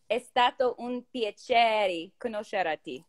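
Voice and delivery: slow, careful learner's Italian accent. Shown as a demonstration. Nervous student showing co-host an Italian accent. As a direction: attempt an Italian accent, word by word. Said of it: "impression of an Italian accent".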